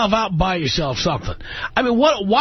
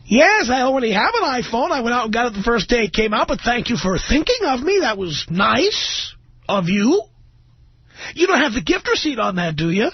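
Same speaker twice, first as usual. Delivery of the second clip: higher, fake-sweet thank-you; mock polite recipient; 4 semitones higher than usual. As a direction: sugarcoat the brush-off. Host mocks ungrateful recipient.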